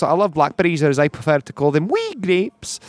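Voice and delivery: Scottish stage character voice; Scottish accent. Retold or imitated. Retelling an old stage joke, in a Scottish accent. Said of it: "So I go up there and I tell b-, jokes".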